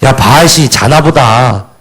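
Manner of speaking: lightly mocking jab at the idol; mild imitated sarcasm; mocking sneer. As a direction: tease them that their god sleeps. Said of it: "막 비아냥거리잖아요".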